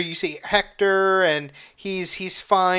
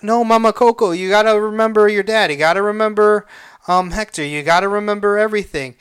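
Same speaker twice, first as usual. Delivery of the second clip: urgent, louder plea; pleading boy; 3 semitones higher, 4 dB louder, faster than usual. Retold or imitated. Boy begging Mama Coco to remember her dad, pleading. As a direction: voice a boy urging someone to remember.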